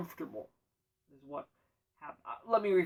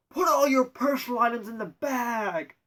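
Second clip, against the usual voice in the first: loud barked order, higher; stern checkpoint agent shouting at a traveler; agent yelling; 6 semitones higher, 7 dB louder than usual. Retold or imitated. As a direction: bark the order like a burly TSA agent. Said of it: "yells at me and yells".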